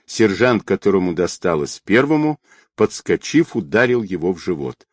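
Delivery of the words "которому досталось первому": ordinary delivery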